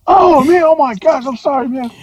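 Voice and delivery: high, gushing put-on apology; sheepish singer. Rock singer apologizing to his sound guy, high sheepish put-on voice. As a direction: backpedal fast, embarrassed.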